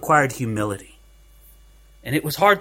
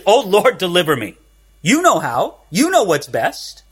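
trusting prayer. Shown as a demonstration. Preacher models a humble prayer for the congregation, gently trusting. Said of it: "a better prayer to pray".

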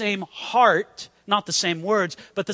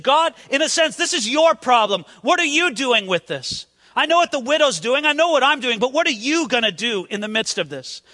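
strong-worded prayer; 3 semitones higher than usual. Acted. Elijah praying to God over the tragedy, insistent and strong. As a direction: plead forcefully, pressing each question. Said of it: "he prayed very strong words".

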